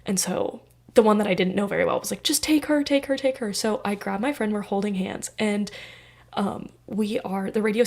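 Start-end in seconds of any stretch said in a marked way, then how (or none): 2.2-3.5 higher, insistent repeat; urgent push. Retold or imitated. Friend urging her to take the other, high and pushy. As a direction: urge her to pick, quickly.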